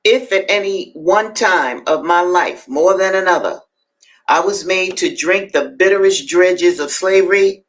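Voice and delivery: deliberate, emphatic narrative reading; dramatic reading aloud. A narrator's reading. Host reading Frederick Douglass to listeners, emphatic reading. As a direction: read it out, weighting key words.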